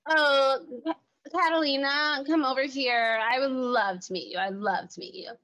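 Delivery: put-on friendly coo, dropping away at the end; imitated sweet greeting. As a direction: lightly mimic a contestant's over-sweet welcome. Voices Victoria greeting the newcomer.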